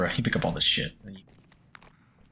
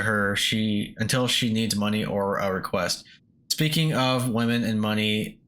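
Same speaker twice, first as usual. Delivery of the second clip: put-on reading an old man's journal in a light Russian accent; a hint of a Russian father writing his diary. Player voicing the old miner's journal in a light Russian accent. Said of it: "He writes in a Russian accent".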